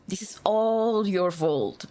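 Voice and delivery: slow, drawn-out "all"; mock blame. Blaming viewers for the League game, drawn-out mock accusation. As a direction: stretch "all" in playful accusation.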